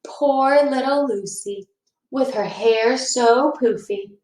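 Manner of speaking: slow singsong teasing; drawn-out sneer; mocking taunt. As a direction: taunt her slowly. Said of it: "Ralph continued".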